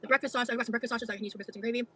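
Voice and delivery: chewing while talking; words round a bite of food; mouth full. Real, not acted. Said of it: "Stop chewing".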